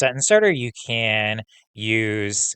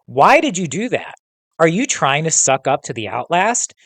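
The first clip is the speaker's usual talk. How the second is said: raised, accusing questions; demanding; 4 semitones higher, 5 dB louder than usual. Acted. Kayan accusing Gabe of siding with the Outlast, raised and accusing. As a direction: keep hammering him with accusations. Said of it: "Kayan demanded".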